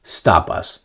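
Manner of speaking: drawn-out "nothing will stop us"; half-speed ominous read; very slow quoted threat. Retold or imitated. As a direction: stretch each word out slowly. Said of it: "I'm quoting".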